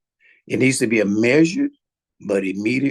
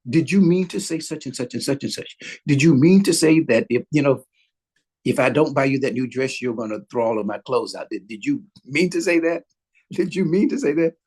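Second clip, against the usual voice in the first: even, measured questioning; calm clarifying question; 2 semitones higher than usual. Shown as a demonstration. Husband calmly asks his wife about the dress threat, measured tone. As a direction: ask it patiently, no heat.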